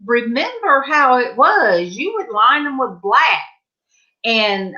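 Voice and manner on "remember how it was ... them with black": high insistent. Retold or imitated. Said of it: "I said".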